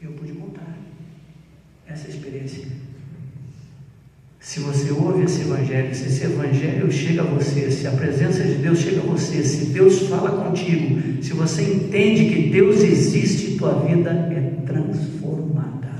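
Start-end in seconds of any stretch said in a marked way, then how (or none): 4.4-15.9 preaching appeal. Acted. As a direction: press the gospel on them, swelling.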